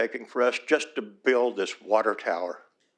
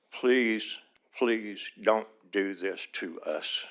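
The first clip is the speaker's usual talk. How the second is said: emotional plea; 3 semitones lower, 5 dB quieter, much slower than usual. Real, not acted. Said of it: "I'm sorry I get emotional".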